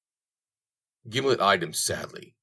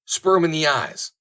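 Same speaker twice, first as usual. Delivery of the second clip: goading shout; 8 semitones higher, 5 dB louder than usual. Acted. Willie goading the rider.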